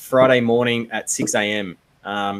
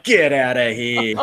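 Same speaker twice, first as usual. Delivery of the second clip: laughing; slower than usual. Retold or imitated. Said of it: "you're like".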